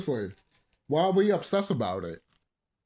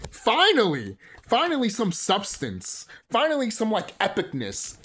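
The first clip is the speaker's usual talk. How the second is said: excited shout; 4 semitones higher than usual. Real, not acted. Vlogger cheering Bay's return, excited shout. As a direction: shout it out, thrilled. Excited about new Transformers.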